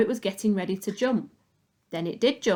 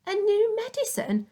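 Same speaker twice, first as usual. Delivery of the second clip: yelled; 9 semitones higher than usual. A narrator's reading. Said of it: "she yelled".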